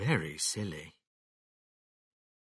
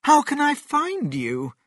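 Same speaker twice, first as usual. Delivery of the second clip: high, raised searching call; 6 dB louder than usual. A narrator's reading. Missus Cranky searches for her mother, calling out. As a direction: call it out high to someone unseen. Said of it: "she called".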